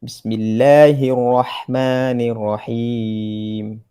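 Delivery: slow, drawn-out tajwid recitation; slow Quran recitation. Shown as a demonstration. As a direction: chant each verse slowly and evenly. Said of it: "Saya ulang lagi sekali". (bacaan tartil perlahan)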